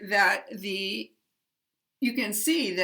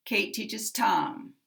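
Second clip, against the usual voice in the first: Tom slides down in pitch at the end; falling intonation on Tom. Shown as a demonstration. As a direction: stress Tom and let it fall. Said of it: "There's a slide down at the end".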